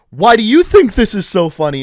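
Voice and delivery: mock the student's laughing with a sneer; snarky teacher voice. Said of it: "in, like, a snarky kind of voice".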